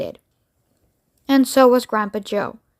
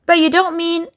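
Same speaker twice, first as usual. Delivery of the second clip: alarmed protest; 6 semitones higher than usual. Acted. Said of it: "shouted Grandpa Joe".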